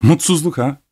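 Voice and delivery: high, scornful echo; mocking, disdainful question; contemptuous smile. A narrator's reading. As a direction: toss it back with a sneering smile. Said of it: "küçümser bir gülümsemeyle".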